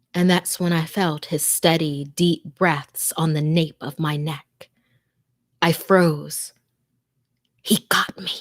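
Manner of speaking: tense, hushed first-person horror narration; scary story told to listeners, fearful; horror story reading. A narrator's reading. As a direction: read it like a frightened victim hiding in a closet.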